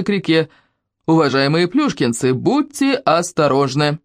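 high, formal radio announcement; village loudspeaker announcement. Acted. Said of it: "из репродуктора ... послышалось".

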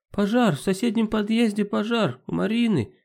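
alarmed high shout of fire. Acted. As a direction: cry out the alarm. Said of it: "С этим криком".

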